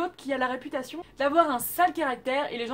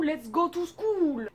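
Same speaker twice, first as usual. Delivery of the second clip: slow, careful English title in a French accent; self-conscious French-accented English; clumsy English accent; 3 semitones higher, much slower than usual. Real, not acted. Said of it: "mon accent anglais est pas terrible".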